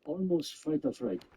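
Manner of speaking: slow teasing repeat. Retold or imitated. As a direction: slowly savor Almost fight or fright, fright drawn out. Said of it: "a perfect non-Asian phrase".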